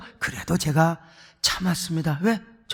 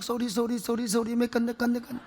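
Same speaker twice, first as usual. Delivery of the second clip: mock apology; 8 dB quieter than usual. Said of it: "당장 미안하다고 막".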